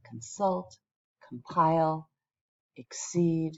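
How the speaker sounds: Consult, compile, exceed, each with the second syllable stressed; showing verb stress pattern. Shown as a demonstration. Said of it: "They all have stress on the second syllable".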